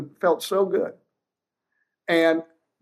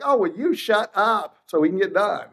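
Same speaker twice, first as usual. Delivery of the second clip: snippy tone; 4 semitones higher than usual. Retold or imitated. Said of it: "what it sounds like".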